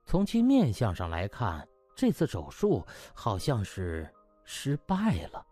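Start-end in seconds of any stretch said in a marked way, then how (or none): none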